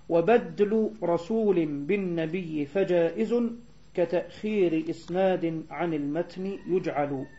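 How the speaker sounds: slow, measured verse recitation; poem recitation. Real, not acted. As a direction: read the verse out slowly and deliberately. (إلقاء بيت شعر ببطء وتأنٍّ)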